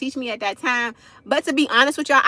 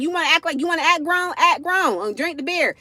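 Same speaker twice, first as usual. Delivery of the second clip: mama challenging, raised; 6 semitones higher than usual. Retold or imitated. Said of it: "She's like".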